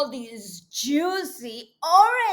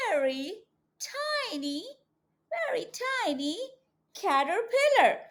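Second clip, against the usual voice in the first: very tiny said higher and softer; tiny-voice emphasis; 7 semitones higher, 4 dB quieter than usual. A narrator's reading. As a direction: make it sound small and delicate. Stresses how small caterpillar is.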